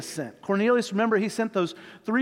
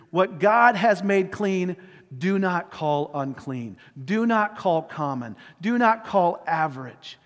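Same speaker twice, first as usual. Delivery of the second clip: slow, measured voice of the Lord, lightly acted; God's firm correction; 3 semitones lower, slower than usual. The Lord corrects Peter about what is clean, lightly acted firm command. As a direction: lay down each command slowly and deliberately.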